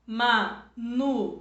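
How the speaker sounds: teacher stretching Manuela to show the hiatus; slow syllable demo. Shown as a demonstration. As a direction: separate Ma-nu-e-la slowly for the class. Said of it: "Então, por exemplo".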